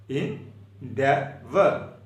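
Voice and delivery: endeavor stretched very slowly with a rising end; slow, drawn-out endeavor. Shown as a demonstration. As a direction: draw out endeavor for the class. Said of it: "E N D E A V O R".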